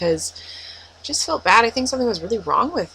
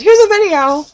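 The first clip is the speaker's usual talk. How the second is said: squealed high, loud "Here's a video!"; chirpy fake-cheerful announcement; mocking the label; 11 dB louder than usual. Fan mocking the label's cheerful distraction, squealy. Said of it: "The whole show is canceled".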